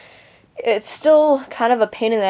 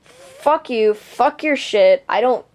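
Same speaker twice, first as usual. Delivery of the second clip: retold angry outburst; 2 semitones higher than usual. Telling viewers how she blew up at the girl, angry retold outburst. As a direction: snap it out like you've just lost it. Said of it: "oh, I was so pissed".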